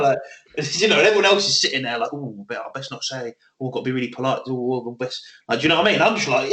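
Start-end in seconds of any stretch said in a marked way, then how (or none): 2.1-5.2 hushed, careful mumbling to oneself; softly fretting, played up; mock cautious politeness. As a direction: imitate someone scared of saying the wrong thing. Mimics colleagues afraid to speak.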